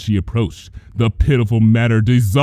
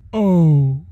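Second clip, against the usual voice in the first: sudden softness; 7 semitones higher, much slower than usual. A narrator's reading. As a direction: coo it back with cold pity. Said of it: "with sudden softness".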